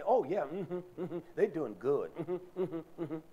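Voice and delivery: lightly imitated sister, humming agreement after each phrase; a hint of mocking, agreeable chatter; sister's way of talking. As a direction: mimic her self-satisfied chain of mm-hmms. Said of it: "That's how she talks".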